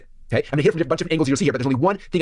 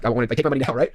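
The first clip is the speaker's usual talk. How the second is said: whispered eagerness; 2 semitones lower than usual. Retold or imitated. Eager buyer quoted.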